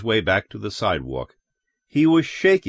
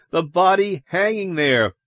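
high-pitched urgent insistence; alarmed, raised voice; shouted; 7 semitones higher than usual. A narrator's reading. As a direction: cry out so they finally look. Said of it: "Ed shouted".

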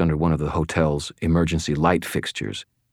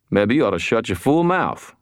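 raised, falsely cheerful gruff voice; forced cheer; 6 semitones higher than usual. Acted. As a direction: cover fear with brash cheer. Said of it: "his tone one of forced cheer".

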